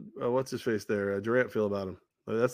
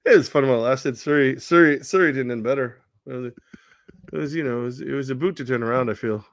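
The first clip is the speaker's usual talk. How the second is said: lightly hammed-up Canadian-Australian accent; Steve Nash; 4 dB louder than usual. Fired coach reflecting on his lost job, in a mock Canadian accent. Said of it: "Australian slash Canadian slash French Steve Nash".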